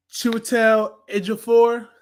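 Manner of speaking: Chiwetel Ejiofor said slowly and carefully, each syllable spelled out; careful name pronunciation. Real, not acted. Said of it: "never know how to say his name the right way".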